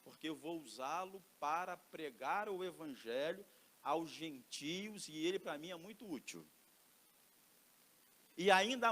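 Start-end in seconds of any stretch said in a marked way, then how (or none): 0.0-6.4 a hint of God calmly reassuring; soft, calm voice of the Lord; lightly voiced Lord. The Lord calms the fearful Ananias, softly reassuring. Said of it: "E o Senhor responde".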